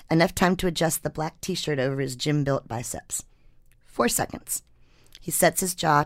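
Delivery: measured, deliberate read-aloud narration; story narration. A narrator's reading. Writer reading her hurricane story to podcast listeners, story narration. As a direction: read it like a published feature story.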